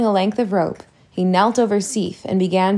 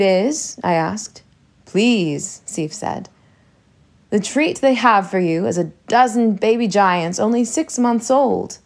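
oily ogre talk. Acted. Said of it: "imitated their oily way of talking".

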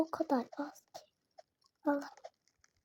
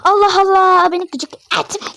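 higher, much louder irritated outburst; annoyed shout; 6 semitones higher, 15 dB louder, slower than usual. Real, not acted. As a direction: snap at the game in annoyance. Oyuna sinirlenip bağırıyor. (sinirli bağırış)

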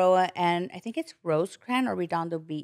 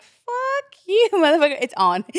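defiant outburst; 9 semitones higher, 6 dB louder than usual. Retold or imitated.

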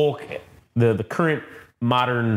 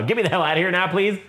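higher-pitched call for rescue; mock urgent plea; 6 semitones higher, faster than usual. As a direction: play at pleading over the radio. Retold agent radioing for rescue.

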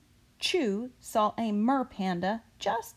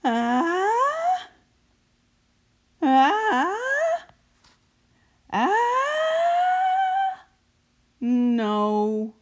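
rising, higher and louder gasps before a sneeze; sneeze build-up; 13 semitones higher, 6 dB louder, much slower than usual. Acted. Chew trying to sneeze for the worried grown-ups, building gasps. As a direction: build toward a sneeze, then give up.

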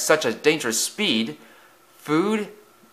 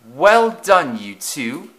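grinning praise; 4 semitones higher, 4 dB louder, much slower than usual. A narrator's reading. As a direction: say it through a pleased grin. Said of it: "he grinned".

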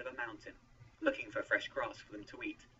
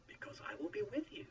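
reassuring; 8 semitones higher than usual. A narrator's reading. God promises Moses to be with him, reassuring. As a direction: reassure gently, without raising the volume. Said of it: "God reassured him".

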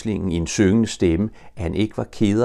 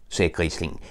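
usual speaking voice

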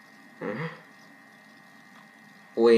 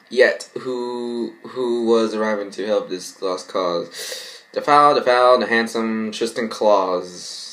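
reading a poem; 4 semitones lower than usual. Acted. Reads parody poem.

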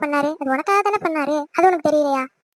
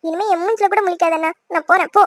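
angry outburst; 4 dB louder than usual. Acted. Angry sister storms off.

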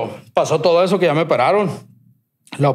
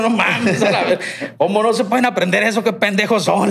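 higher, fed-up griping; exasperated rant; 6 semitones higher than usual. Retold or imitated. Fed up with doctors' questions.

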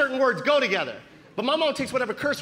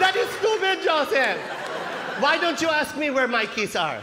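put-on high, emphatic accented scolding; mock-exasperated Filipino mom; scornful mom; 4 semitones higher than usual. Mom telling her son his question is stupid, high scornful accented voice. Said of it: "Isn't that a stupid question?".

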